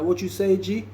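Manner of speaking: high-pitched voice imitating someone far off; faint distant voice. Valdosta answering Tony from far down the dorm, faint distant call. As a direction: call back as if from down the hall. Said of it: "I could hear him real faint".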